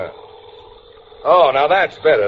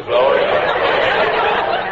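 laughing, drawn out; much slower than usual. Acted. Repeat of line 123, drawn out.

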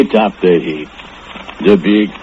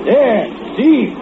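retold holler. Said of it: "and I holler".

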